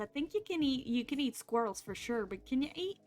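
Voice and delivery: put-on Brooklyn gangster patter; Brooklyn accent. Streamer musing about eating otters, put-on Brooklyn accent. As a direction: keep up a playful Brooklyn accent. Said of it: "we doing the accent".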